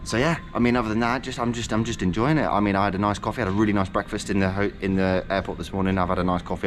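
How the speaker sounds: muffled behind a mask; through face mask. Real, not acted. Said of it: "I really hope you can hear me with this mask on".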